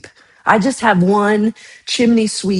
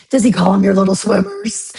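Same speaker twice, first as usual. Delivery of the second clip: mock cutesy teasing. Mocking someone's doctor's word for sperm, silly teasing voice. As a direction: tease with a hammed-up, rising squeal at the end.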